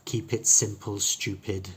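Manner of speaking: long ee only in "Keep", short I in "it simple, stupid"; long E then short I. Shown as a demonstration. Teacher giving another example sentence, short I sounds. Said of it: "the rest of the sentence are all short E's".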